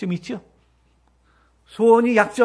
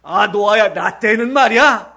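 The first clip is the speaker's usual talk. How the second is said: put-on parent lecturing child; 4 dB louder, slower than usual. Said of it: "애들한테도".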